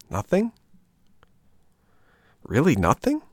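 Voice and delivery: high, rising dismayed question; a touch of a disbelieving puppet; dismayed surprise. Acted. Hungry puppet dismayed at no food.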